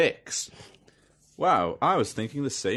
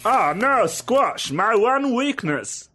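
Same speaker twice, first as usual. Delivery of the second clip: high, hammy anguished wail; a villain struck at his weakness; dying villain cry; 9 semitones higher, 3 dB louder, slower than usual. Acted. Villain defeated by squash.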